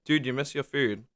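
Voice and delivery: lightly imitated German accent. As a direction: put on a hint of a German accent. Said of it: "with the German accent, of course".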